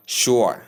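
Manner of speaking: a clear teaching "sure", sh gliding into or; model pronunciation. Shown as a demonstration. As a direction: say "sure" as sh plus or. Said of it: "when you add sh to it".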